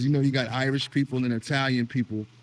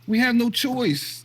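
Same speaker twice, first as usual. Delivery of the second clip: emphatic; 9 semitones higher, 3 dB louder, slower than usual. Real, not acted. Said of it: "emphatic punchline".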